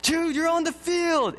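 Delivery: high, drawn-out sideline call; coach calling out. Acted. Coach to a sleeping kid, high calling voice. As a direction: call a child from across the field, imitating a coach. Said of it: "coach starts calling his name".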